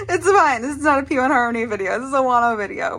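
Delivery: loud, high, fast giddy gush. Real, not acted. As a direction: gush like a squealing fangirl. Excited fangirl outburst.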